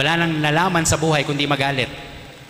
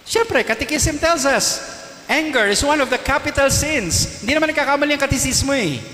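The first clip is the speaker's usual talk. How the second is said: mock-certain pronouncement; 10 semitones higher than usual. Real, not acted. Priest quotes church teaching.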